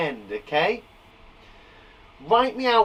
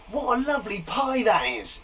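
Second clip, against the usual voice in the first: exclaiming; 3 semitones higher than usual. Shown as a demonstration. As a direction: make it sound more important. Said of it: "It's adding exclamation".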